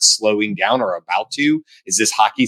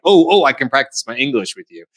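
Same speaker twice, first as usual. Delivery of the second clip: raised-pitch eager imitation; excited; 4 semitones higher than usual. Germans to an American they hear, playfully excited. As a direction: act a local jumping at the chance, lightly. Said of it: "they were so excited to hear".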